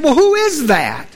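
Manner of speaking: acted call to an unseen voice; man calling up. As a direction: ask upward, puzzled. Stranded man questions the unseen voice.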